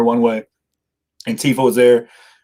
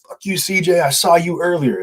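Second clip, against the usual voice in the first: mock taunt; 7 semitones higher than usual. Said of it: "and he was like".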